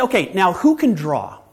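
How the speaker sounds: mock eager call. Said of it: "then he'll say".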